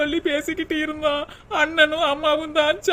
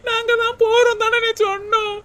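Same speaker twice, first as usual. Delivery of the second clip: crying plea; 4 semitones higher than usual. Acted. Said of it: "உன் நடிப்பு எல்லாம் எனக்கு தெரியும்டி".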